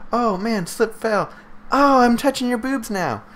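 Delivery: high squeaky hammed-up fake surprise; mock anime hero. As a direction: ham up the clumsy lech. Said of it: "you know".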